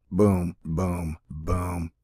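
low mock explosion booms; low boom effects. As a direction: growl out the booms. Sound effect voicing explosions.

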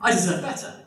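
hammed-up pompous actor with a laugh in it; pompous great actor. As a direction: puff up like a vain star. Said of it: "And he's like".

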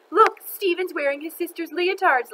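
high, loud mocking call; laughing taunt. A narrator's reading. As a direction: point him out for everyone to mock. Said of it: "laughed Dana".

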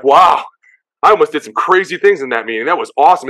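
like you nearly ran through a wall; pumped up. Retold or imitated. Player fired up after the coach's pregame speech, excited.

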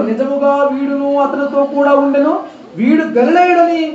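slow, insistent accusing; firm accusation. Retold or imitated. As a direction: press the claim home slowly and firmly. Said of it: "దృఢంగా చెప్పేశాడు". (నెమ్మదిగా, దృఢంగా ఆరోపణ)

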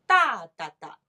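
long first 哒 then two quick ones; long-short-short 哒哒哒; back-sixteenth rhythm. Shown as a demonstration. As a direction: lean loudly on the first 哒, clip the next two. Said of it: "一个八加两个十六".

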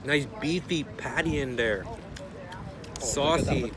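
talking between bites; chewing while talking. Real, not acted. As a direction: mouth partly full. Seen 0: Bit burger at -5; still chewing and holding burger while talking.

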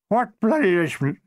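put-on slurred drunken heckle. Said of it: "said a drunken voice".

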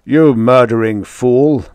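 slow, loud roar. A narrator's reading. Grushenko roaring at Holbrook after the killing. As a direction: roar the accusation at him. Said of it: "Grushenko roared it out".

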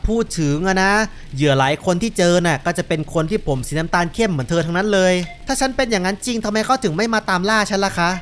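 friendly driver and passenger chatting; lightly voiced game dialogue. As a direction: read both characters conversationally, lightly acted. (พากย์บทสนทนาในเกมแบบเบาๆ)

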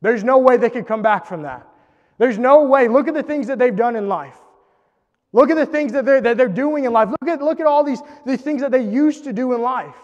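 scoff, then swell into contempt; judgmental inner voice. Retold or imitated. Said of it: "we might think".

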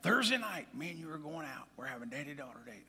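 a hint of an insistent daughter; daughter's voice. Daughter telling her dad about their date, lightly voiced. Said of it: "she said".

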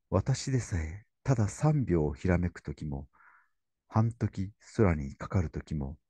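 measured literary reading; reading aloud. Acted. Lecturer reading Kenji's words to the audience, reverent reading. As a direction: read the passage slowly and reverently.

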